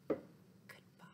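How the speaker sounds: barely audible whispered "Goodbye.". Shown as a demonstration. Librarian whispers the goodbye as quietly as she can. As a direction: breathe "Goodbye." almost silently. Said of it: "say goodbye as quiet as we can".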